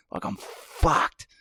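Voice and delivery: breathy hushed confession; hushed and slow; whispered aside. Retold or imitated. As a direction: drop to a whisper, drawn out. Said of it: "whispered state".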